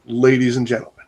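understated mock announcer; a hint of the show announcer. Host restarting his mock announcement, understated announcer voice. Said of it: "say it in my announcer voice".

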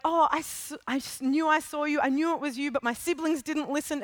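Lucy rushing to tell Aslan; eager child. Acted. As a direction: blurt it out like a relieved little girl.

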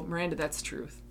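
quietly telling herself the truth; a soft, firm reminder to herself; firm self-talk. Retold or imitated. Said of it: "Even if I have to go".

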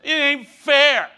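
slow, drawn-out whining complaint; mock whine. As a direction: whine it like a sulking child. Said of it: "And I was whining".

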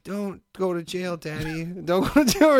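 put-on a light plea from his kid, slow; lightly voiced child begging daddy; pleading child voice. His kid pleading with him to stay out of jail, lightly mocked. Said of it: "my family's voice in my ear going".

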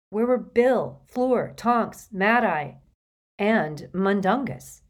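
anxious. A narrator's reading. Narrator's rising anxious questions.

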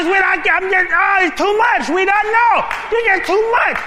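overwhelmed husband crying out it's too much; rising panicked plea. Acted. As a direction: plead harder and harder.

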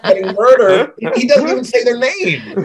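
giggling through the words; laughing. Real, not acted. Friend laughing while telling about the movie.

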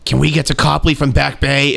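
a touch of the odd lady's voice, suddenly calm; imitating bus lady.

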